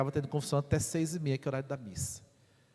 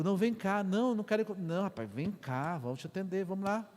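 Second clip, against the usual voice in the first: higher-pitched, eager calling back; insistent coaxing; 8 semitones higher than usual. Retold or imitated. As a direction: coax him over, pitched up. Acted insisting he come back. (chamando com insistência, voz aguda)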